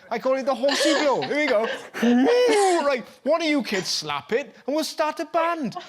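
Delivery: teacher in a put-on Welsh accent, building excitement; mock Welsh accent. Host imagines the biology teacher showing off her find, mock Welsh accent. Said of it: "You've got a Welsh accent, I'm detecting".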